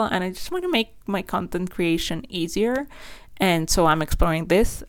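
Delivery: speaking with a slight lisp. Real, not acted. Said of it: "sorry for the lisps".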